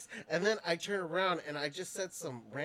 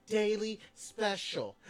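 slow coaching; slower than usual. Shown as a demonstration. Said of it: "Can you say it with me?".

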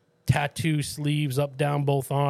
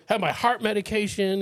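panicked stranger; 7 semitones higher than usual. Retold or imitated.

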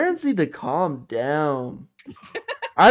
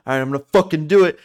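fast mock pep talk; 5 dB louder, faster than usual. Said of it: "giving himself a pep talk".

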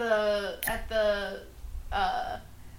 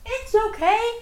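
sad goblin; 6 semitones higher than usual. Acted. Goblin replies sadly.

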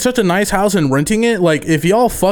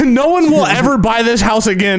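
laughing. Real, not acted. Laughing at prank idea.

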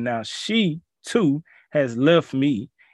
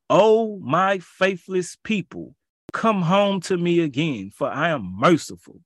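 God pleading; 4 semitones higher than usual. Acted. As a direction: beg them gently to come home. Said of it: "Here's God pleading again".

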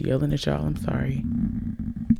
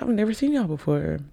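mock surprise; 5 semitones higher, 4 dB quieter than usual. Retelling surprise meeting coworkers.

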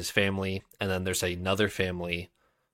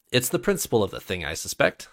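amused. Acted. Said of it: "still sounding amused".

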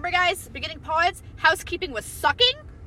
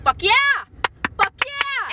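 mock cheer; 9 semitones higher, 3 dB louder than usual. Mocking enthusiastic agreement.

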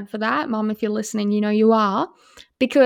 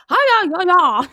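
imitating toddler cheering; 7 semitones higher than usual. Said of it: "she's like".

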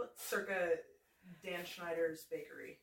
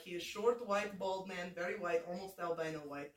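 put-on deadpan comic Russian accent. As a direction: introduce your character in a put-on Russian accent. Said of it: "person that this Russian accent would".

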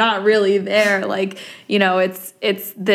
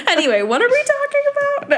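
laughing; faster than usual. Real, not acted. High fast laughing aside.

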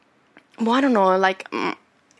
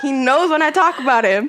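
laughing; 4 semitones higher, 3 dB louder than usual. Real, not acted. Still laughing at the joke.

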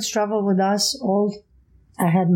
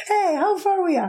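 higher, laughing repeat of the question; laughing, exasperated; 9 semitones higher than usual. Retold or imitated. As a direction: ask again, laughing in disbelief. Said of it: "My brother was like".

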